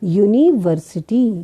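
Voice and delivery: यूनिवर्सिटी starting with "yoo", slowly; slow teacher's demonstration of यूनिवर्सिटी, "yu-ni" opening; correct pronunciation. Shown as a demonstration. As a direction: model यूनिवर्सिटी with a clear y-glide first. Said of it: "हम क्या पढ़ेंगे".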